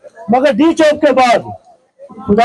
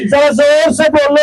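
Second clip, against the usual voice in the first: booming political rally speech. Real, not acted. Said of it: "मेरे नारों का जवाब देंगे".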